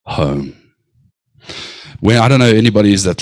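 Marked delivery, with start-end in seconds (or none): 0.0-0.5 heartfelt call home. Acted. Preacher voices heaven calling people to repent, slow heartfelt appeal. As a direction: call them back slowly, softening on the last word. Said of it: "there's a desire from heaven to say".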